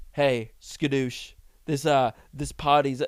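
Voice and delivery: slow, lightly voiced goofy panda; a hint of Jack Black's Po; lightly done Jack Black impression. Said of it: "this is Jack Black's voice".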